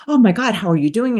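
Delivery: quick, clipped, eager greeting; staccato rhythm. Shown as a demonstration. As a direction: fire the words out in a rushed staccato. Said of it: "you can hear a staccato rhythm".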